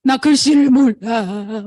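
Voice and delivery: a light hint of sobbing it out; mock crying confession. Partner admitting she can't read, imitated crying. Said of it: "울면서".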